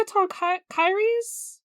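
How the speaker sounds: Hecatoncheires with a long "KAI-reez" ending; preferred pronunciation. Shown as a demonstration. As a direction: slowly try Hecatoncheires, "cheires" as "KAI-reez". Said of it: "the E and the I placement".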